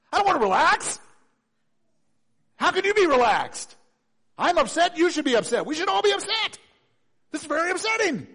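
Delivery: high, loud, indignant complaining; upset protest. Acted. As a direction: push back, worked up and offended. Voicing upset hysterical person.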